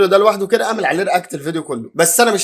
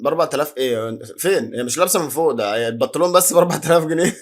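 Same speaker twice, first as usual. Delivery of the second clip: laughing disbelief. Real, not acted. Laughing at the price.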